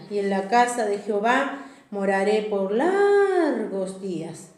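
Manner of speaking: slow, sung-out psalm reading; scripture reading. Acted. Pastor to his church, reading the psalm slowly, half sung. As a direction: draw out the verse to the church.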